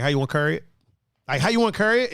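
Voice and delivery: "curry" for "carry", with an "ur" vowel; Baltimore pronunciation. Shown as a demonstration. Streamer demonstrating a Baltimore phrase, Baltimore pronunciation. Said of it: "carry is curry".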